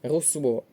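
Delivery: Русло stressed on the final ло; stress on second syllable. Shown as a demonstration. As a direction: land on the last vowel of Русло. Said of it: "наголос на другий склад".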